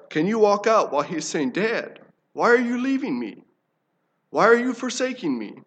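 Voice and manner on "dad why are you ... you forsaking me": lightly voiced child, higher, pleading; a hint of a small boy begging. Son calling after his departing father, mild pleading child.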